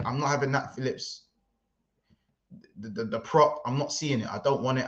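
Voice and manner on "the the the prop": tripping over the first word; halting, flustered false starts; stuttering. Real, not acted. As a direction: stammer and restart, lost for words. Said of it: "I'm, I'm stuttering".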